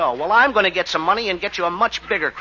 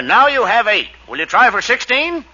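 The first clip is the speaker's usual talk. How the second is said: lightly voiced crooner; a hint of a radio crooner; celebrity impression; 4 dB louder than usual. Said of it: "Who does that sound like?".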